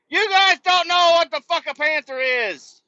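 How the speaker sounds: high, loud scornful jab; loud scornful ribbing; mocking outburst. Real, not acted. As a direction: shout it mockingly at the locals. Mocking Tulsa locals.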